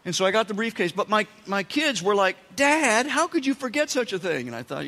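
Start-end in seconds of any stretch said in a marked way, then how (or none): 2.5-4.5 put-on high, loud child-like protest; mock-scolding like a disappointed kid; kids' reproachful whine. Kids scolding their dad for forgetting, in a high reproachful whine.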